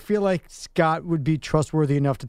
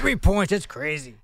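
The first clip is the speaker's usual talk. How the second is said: put-on grumpy old guy; slower than usual. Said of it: "You, you sound like the old guy".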